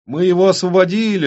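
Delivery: высокий, громкий восторженный возглас; кричит от радости; радостный крик. Acted. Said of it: "радостно закричала Марси". (радостно кричит, гораздо выше)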